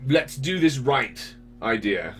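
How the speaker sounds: high, laughing character voice; a lightly voiced high persona, slowing at the end. Shown as a demonstration. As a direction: slip into the cheerful persona, chuckling. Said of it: "The, the voice is".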